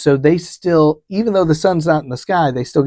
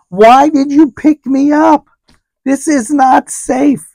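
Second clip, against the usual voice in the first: rising pitch, louder, a panicked rant about the unsafe taxi; 4 semitones higher, 3 dB louder than usual. Retold or imitated. Passenger to herself about the sleepy driver, panicked and climbing high. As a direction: spiral into alarm, voice climbing higher and louder. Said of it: "And I'm like".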